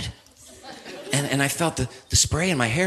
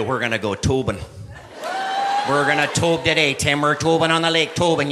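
Minnesota friend; 2 semitones lower than usual. Retold or imitated. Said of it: "the Swedish chef from the Muppets".

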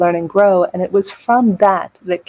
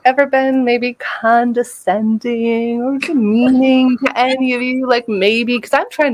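higher, slow and hesitant, half-asking; sheepish; 5 semitones higher, slower than usual. Retold or imitated. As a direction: tiptoe through it, afraid of the answer. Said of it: "I'm kinda sheepish".

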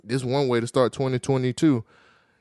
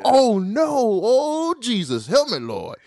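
mock concern; 7 semitones higher, 3 dB louder, slower than usual. Mocking fake concern.

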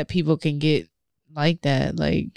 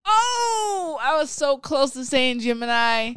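laughing; 8 semitones higher, slower than usual. Real, not acted. Guessed the sign, laughs.

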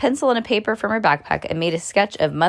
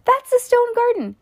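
put-on high, loud little-girl voice; imitated little girl, much higher; 4 dB louder than usual. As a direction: announce it like an excited four-year-old. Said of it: "And she goes".

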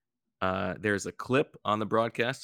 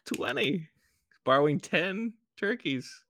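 high, slow teasing tone; 10 semitones higher, slower than usual. Real, not acted. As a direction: stretch it out to tease. Teasing the overbid in auction.

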